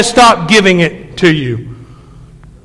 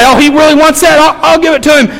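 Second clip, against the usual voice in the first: resigned wife; 6 semitones higher than usual. Retold or imitated. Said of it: "the woman will say".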